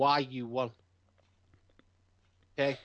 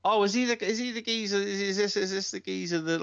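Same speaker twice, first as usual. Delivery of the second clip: incredulous realization; 9 semitones higher than usual. Real, not acted. Recognising the rival wrestler.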